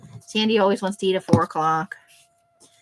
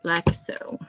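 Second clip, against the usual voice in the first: whispering. Real, not acted. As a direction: whisper it to yourself. Crafting, unvoiced aside.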